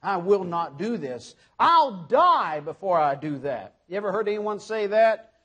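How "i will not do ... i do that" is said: Peter insisting. Retold or imitated. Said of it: "He insisted".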